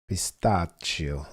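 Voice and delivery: Pistachio drawn out slowly as pis-TAH-zhio with a falling end; slow careful pronunciation. Shown as a demonstration. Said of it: "How should it be said".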